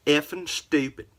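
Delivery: a mock indignant blast; mock angry repeat. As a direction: spit it back out like the cowboy. Repeats the insult for effect.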